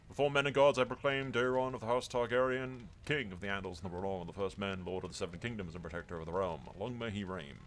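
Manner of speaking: measured, ceremonial intoning; coronation proclamation. Pretend. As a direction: proclaim the new king with ceremony. Reciting a coronation proclamation in character.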